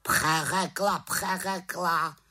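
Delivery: high, slow repeated raven jeer; mocking raven. A narrator's reading. Raven mimicking the witch, high slow jeer. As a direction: echo her word back mockingly. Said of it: "krákal havran".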